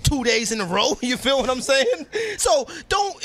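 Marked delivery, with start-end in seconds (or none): 2.4-3.2 emphatic outburst. Real, not acted. Raising his voice in the middle of a rant about Talib, emphatic. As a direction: blurt it out hard.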